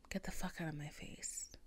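quiet, low, firm dismissal; said low and soft; low calm telling-off. Retold or imitated. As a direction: tell him off under your breath. First telling, before the screaming.

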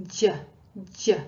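"J" said with front half of tongue on the palate; tongue tip on the teeth, blade pressed to palate for "J"; palatal j. Shown as a demonstration. Teacher demonstrates the tongue position to learners, palatal j. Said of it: "that is what's touching the palate".

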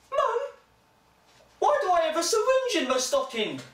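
put-on high, loud child's voice; a kid pleading with his mum; whiny kid. A child complaining to his mum at Christmas, high and loud.

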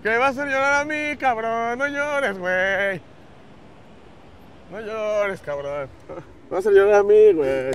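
drawn-out, swelling plea; emotional pleading. Real, not acted. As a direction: beg a friend not to cry, close to tears yourself. Tenderly begging emotional friend not to cry. (súplica conmovida, alargando las palabras)

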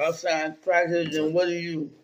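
talking through a mouthful of food; words muffled by chewing; mouth full. Real, not acted. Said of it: "you talking with your mouth full".

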